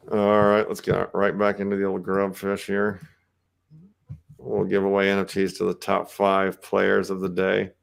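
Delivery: words pushed through clenched teeth; through gritted teeth. Real, not acted. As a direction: talk with your jaw clamped shut. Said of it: "I'm gritting and talking through my teeth".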